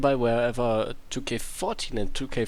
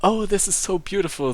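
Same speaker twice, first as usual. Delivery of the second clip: gleeful; 7 semitones higher, 4 dB louder than usual. Acted. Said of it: "Skylar said with glee".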